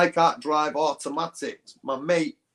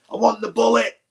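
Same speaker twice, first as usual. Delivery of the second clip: insistent demand; 7 semitones higher, 5 dB louder than usual. Retold or imitated. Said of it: "just being like a divvy".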